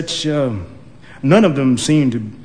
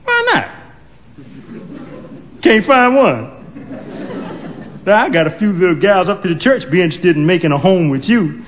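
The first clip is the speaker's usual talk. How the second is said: put-on matchmaking old woman; 3 semitones higher than usual. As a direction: push the church girls on him.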